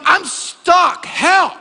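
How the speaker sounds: high, loud comic cry for help; mock desperate plea. Stranded preacher begging the OnStar lady, comic loud wail. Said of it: "I'm like".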